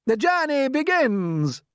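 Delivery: high, slow proclamation; shouted. Acted. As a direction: announce it grandly. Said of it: "shouted the centipede".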